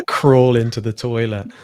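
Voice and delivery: loud, slow creature impression; hammed-up creature voice, laughing through it; Smeagol. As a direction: drag it out as a put-on creature voice. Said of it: "turned into Schmeagol".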